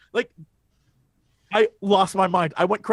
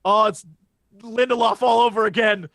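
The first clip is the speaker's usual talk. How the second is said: mock curse. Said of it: "It's just like".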